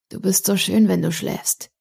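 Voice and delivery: understated loving murmur; tender. Acted. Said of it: "sagte er zärtlich".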